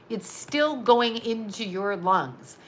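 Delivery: slowed right down, every word spaced out; slow, deliberate repeat. Shown as a demonstration. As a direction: drive it home slowly.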